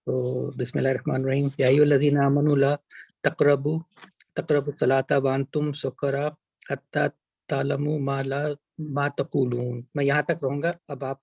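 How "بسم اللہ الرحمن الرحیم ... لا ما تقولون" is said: measured Arabic recitation; Quran recitation. Acted.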